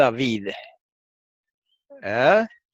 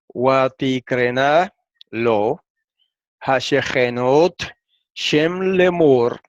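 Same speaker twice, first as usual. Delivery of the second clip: slow, measured reading of the Hebrew verse; a teacher slowly reading a Hebrew verse to the class; slow Hebrew recitation; much slower than usual. Shown as a demonstration. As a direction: recite each Hebrew word slowly and deliberately. Reads Hebrew transliteration aloud.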